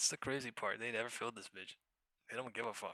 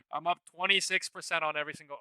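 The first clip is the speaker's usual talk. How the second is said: fast, higher, eager words; excited rush; 6 semitones higher, 4 dB louder, faster than usual. Real, not acted. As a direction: rattle it off thrilled. Excited about gains.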